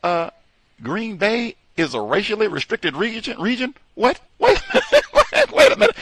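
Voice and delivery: high incredulous whoa, breaking into a laugh; mock disbelief. Retelling his own reaction to the news, high incredulous laughing. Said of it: "And I said".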